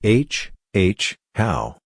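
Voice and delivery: halting, stumbling start; stammering. A narrator's reading. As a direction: trip over the first sound.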